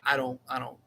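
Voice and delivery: normal talking voice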